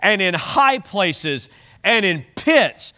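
emphatic, measured pulpit reading; scripture reading. Acted. Preacher reading scripture to the congregation, emphatic public reading. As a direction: read the verse out with drawn-out list items.

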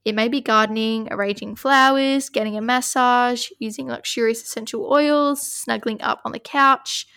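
measured oracle card reading; steady reading-aloud voice. Acted. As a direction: read the card out evenly.

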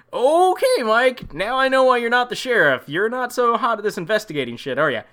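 sarcastic taunt. Acted. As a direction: needle him sarcastically. Mocking Mike's investigating.

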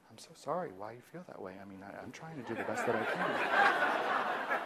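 very soft, calming apology. Shown as a demonstration. Provider calming an angry patient, very soft. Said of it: "you start speaking softer".

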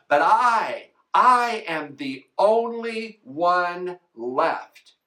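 Elijah's complaint, near his own voice; Elijah pleading. Acted. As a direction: plead his case to God, lightly voiced. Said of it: "these are his words".

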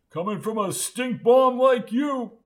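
loud, high-pitched retort; high, heated comeback. A narrator's reading. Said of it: "Wendell raised his voice".

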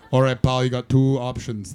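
badly faked Scottish tough guy; comically unconvincing Scottish voice; bad Scottish accent. Shown as a demonstration. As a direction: do a poor Scottish accent, addressing a pal. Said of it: "This is my Scottish accent".

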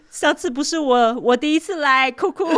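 high, whiny fake sob of a caught thief; high whiny mock-crying plea. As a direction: whimper it like a thief pleading, hammed-up. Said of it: "小偷哭哭说".

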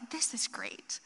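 quiet unvoiced whisper of delight; whispered to herself. Mom at night admiring the gift, whispering. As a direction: breathe it out secretly. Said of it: "I'm just like".

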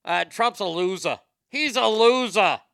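mock Boston coworker. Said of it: "she was from Boston".

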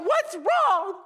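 high, loud, alarmed cry; frantic high what's wrong; retold alarmed shout. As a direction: shout it in sudden panic. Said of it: "And I was going".

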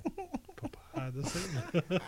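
very slow, drawn-out repeat. Acted. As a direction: drag the words out slowly.

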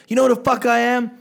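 retold entitled girl. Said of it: "The girl goes".

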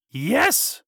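high-pitched, delighted yes; storybook witch calling out keenly; excited witch's cry. A narrator's reading. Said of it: "cried the witch".

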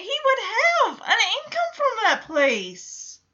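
high, indignant questioning with laughing disbelief; angry rant. Real, not acted. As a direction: demand an answer, heated and incredulous. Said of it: "but I'm just so angry right now".

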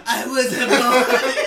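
high, slow laughing whine; mock childish. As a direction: wail it like a hurt kid. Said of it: "you can insert".

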